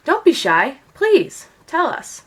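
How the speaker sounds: a hint of a coaxing queen pressing gently; queen urging. A lightly voiced queen coaxing the shy princess at breakfast. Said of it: "the queen urged".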